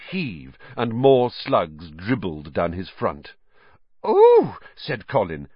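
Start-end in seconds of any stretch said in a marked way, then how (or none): 4.1-4.6 high, delighted ooh; thrilled squeal of a young fan; much higher, louder gasp of fascination; fascinated. Acted.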